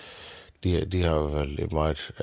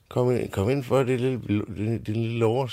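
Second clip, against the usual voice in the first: dronningen; 6 semitones higher than usual. Acted. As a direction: coo it out like a fussing queen. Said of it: "siger hun så". (dronningen kurrer højt til den lille pige)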